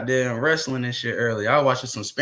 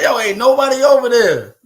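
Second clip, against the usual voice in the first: high, loud put-on voice; mocking reply; 9 semitones higher, 7 dB louder than usual. Streamer joking that nobody is in the chat, high mock voice. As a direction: toss it off in a high jokey voice.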